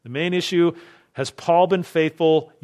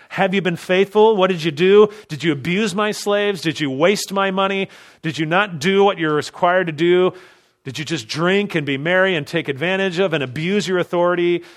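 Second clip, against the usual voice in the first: raised, higher voice firing accusing questions; master's stern interrogation; 3 semitones higher, 4 dB louder than usual. Acted. Preacher voicing the returning master confronting his servant, raised and accusing. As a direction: demand answers from the servant like an angry master.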